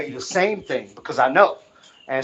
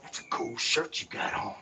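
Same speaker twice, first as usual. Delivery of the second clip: mocking whisper; 3 semitones lower, 8 dB quieter than usual. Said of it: "They'd be like".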